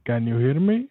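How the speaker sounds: muffled, underwater phone line. Real, not acted. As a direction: caller sounding underwater. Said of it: "Sounds like you're underwater".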